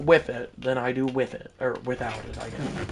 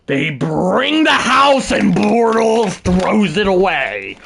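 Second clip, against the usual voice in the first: play-by-play announcer; 6 semitones higher, 6 dB louder, slower than usual. Pretend. Calls play as commentator.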